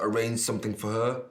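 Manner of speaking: pointed echo of her question; mildly mocking echo; question turned back. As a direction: throw her words back at her, firmly. Throws the delicate question back.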